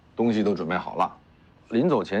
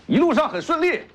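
laughing; 4 dB louder than usual. Real, not acted. Reading the letter amid a scuffle.

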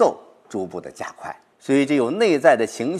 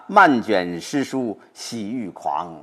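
slow joyful recitation; 2 semitones lower, much slower than usual. Shown as a demonstration. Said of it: "就怎么样啊".

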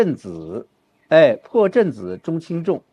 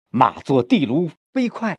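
slow, stressed reading; slow model line; brisk model phrasing; slower than usual. Shown as a demonstration. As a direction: make 飞快 sound quick. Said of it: "不是飞快就很慢了".

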